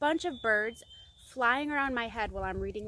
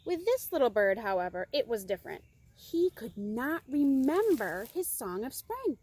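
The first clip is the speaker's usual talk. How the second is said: measured storybook narration with stressed key words; story reading. A narrator's reading. Reader introducing the forgetful little bird, expressive story reading. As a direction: tell it to children with drama.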